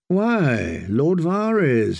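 mock-pleasant greeting, slowed a touch. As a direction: menace hidden behind a polite greeting. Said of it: "he said pleasantly".

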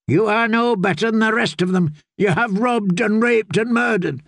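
high, firm condemnation; stern accusation. A narrator's reading. Swordswoman to the yielding fool, stern accusation. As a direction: pronounce his crimes at him.

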